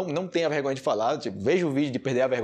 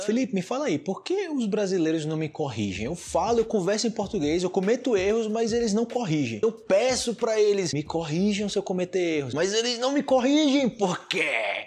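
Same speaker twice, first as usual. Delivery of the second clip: lightly voiced frustrated learner, pitched higher; complaining student; 4 semitones higher than usual. Student asking Felipe why Brazilians don't correct them, mildly frustrated. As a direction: plead for an answer, a touch exasperated.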